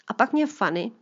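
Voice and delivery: táta vzpomíná, hlasitěji; lightly voiced Mr Fialka. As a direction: otec vypráví dceři o dětství. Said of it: "teď pokračuji jako pan Fialka". (otec dceři vzpomíná, lehce nahraný hlas)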